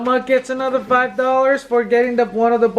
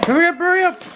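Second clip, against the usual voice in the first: laughing shout; 9 semitones higher, much faster than usual. Real, not acted. Impatient to see prize.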